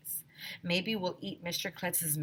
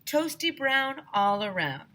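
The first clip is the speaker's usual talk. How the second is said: high, slow chanted call; shouting; 8 semitones higher, 4 dB louder than usual. A narrator's reading. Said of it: "I shouted".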